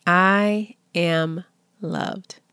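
slow repeated self-affirmation; slow calm mantra. Shown as a demonstration. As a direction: give them time to say it with you. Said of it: "Did you say that with me out loud".

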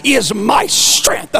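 lifted voice. Shown as a demonstration. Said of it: "lift their voice and say".

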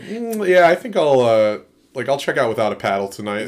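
high, lazy, just-woke-up dude voice; dopey tanned guy. Retold or imitated. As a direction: play a sleepy, freshly tanned customer. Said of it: "going, like".

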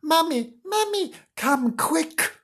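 high-pitched call for mummy; hammed-up child's cry for help; shouted alarm. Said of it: "shouted the idiot emotion".

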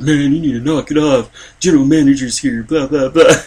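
imitating a manager telling him off; annoyed manager. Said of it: "He's like ... was pissed".

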